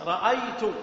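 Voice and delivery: رأيت said ra'aytu, ending in -tu; first-person ending. Shown as a demonstration. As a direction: end رأيت on a clear "u" vowel. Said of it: "في الماضي مثلًا نقول: "أنا".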